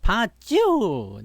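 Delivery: long drawn-out smug 봤죠 with a rising end; a self-satisfied told-you-so 봤죠; signature catchphrase. Shown as a demonstration. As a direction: stretch 봤죠 slowly, savouring it. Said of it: "이 봤죠가 원래 내가 원조야".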